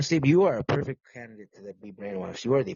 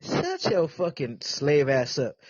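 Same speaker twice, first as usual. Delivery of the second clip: slow, stretched mock scolding; mock angry scold; 3 semitones higher, much slower than usual. Host mock-scolding his podcast friend Can't Sleep, slow and stretched. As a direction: drag out the insult like a playful bark.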